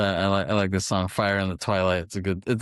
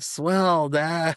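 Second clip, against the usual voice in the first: chirpy fifties TV son, higher and louder; sitcom son voice; 7 semitones higher, 4 dB louder than usual. Retold or imitated. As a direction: play the perfect sitcom kid. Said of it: "reenacts this Leave It to Beaver scene".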